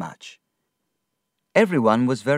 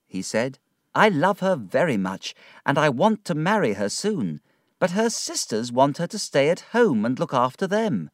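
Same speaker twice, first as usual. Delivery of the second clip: put-on lightly raised young man's voice, earnest; a touch of a hopeful young man pleading his case; young Traddles, mildly anxious; Traddles, young suitor; 5 semitones higher than usual.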